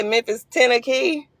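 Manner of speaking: "ten a key" as one name, TEN-a-kee; local Memphis pronunciation. Retold or imitated. Asking Memphis viewers if they say it so, local pronunciation. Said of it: "Ain't that what y'all say?".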